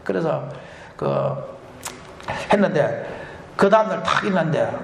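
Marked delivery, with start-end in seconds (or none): none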